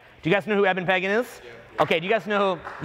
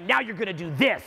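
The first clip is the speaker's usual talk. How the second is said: mock bossy demands, slightly raised; demanding; 5 semitones higher than usual. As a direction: imitate a pushy client listing orders.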